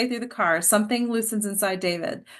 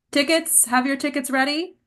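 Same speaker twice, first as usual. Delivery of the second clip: a higher, light conductor voice calling out; train conductor call; 5 semitones higher than usual. Acted. Conductor walking the car asks everyone for tickets, lightly voiced.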